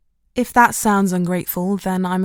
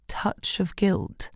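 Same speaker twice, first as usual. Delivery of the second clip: scornful, slow repeat; 6 dB quieter, much slower than usual. A narrator's reading. Narrator scoffs at own phrase.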